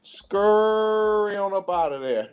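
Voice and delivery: playful taunt, rising at the end; gloating goodbye to a rival; mocking send-off. Real, not acted. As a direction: shoo him off with a teasing grin. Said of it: "I love saying that".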